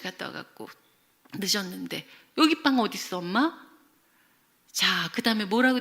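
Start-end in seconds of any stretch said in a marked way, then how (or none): 2.4-3.7 higher-pitched mock-cross question; acted angry demand. Child asks mother about the missing bread, angry. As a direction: imitate a child challenging their parent. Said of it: "그러면서 막 화를 내는 거예요".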